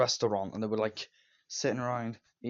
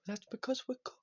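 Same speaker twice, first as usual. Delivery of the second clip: Lenny; 12 semitones higher, 7 dB quieter than usual. Retold or imitated. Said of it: "then Lenny says".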